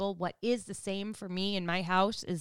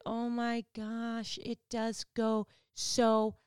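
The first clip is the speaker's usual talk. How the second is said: wistful; much slower than usual. Retold or imitated. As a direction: realize how fast time went, tenderly. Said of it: "now you're like".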